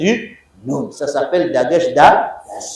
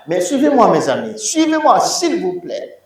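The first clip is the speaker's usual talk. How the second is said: pleading; 5 semitones higher than usual. Acted. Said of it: "I beg you".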